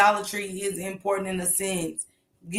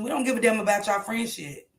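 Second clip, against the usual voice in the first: usual speaking voice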